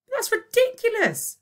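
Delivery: high, loud protest; cried out. Acted. Virgo to Boyle, crying out in protest. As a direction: cry out in outrage. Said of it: "cried Virgo".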